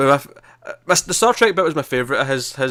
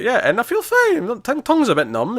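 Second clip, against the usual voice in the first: acted stoned voice; 10 semitones higher than usual. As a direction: play a dazed guy with a numb tongue. Retells high character's line.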